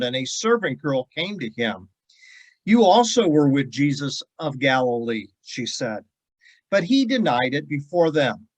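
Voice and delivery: measured Bible reading voice; scripture reading. Acted. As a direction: read the passage with weight. Reads scripture passage.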